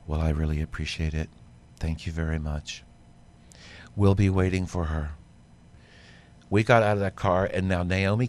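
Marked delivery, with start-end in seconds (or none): 0.1-5.1 lower, measured and polite, completely unruffled; calm gentleman. Retold or imitated. Designer thanks the late caller, very calmly. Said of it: "calmest voice".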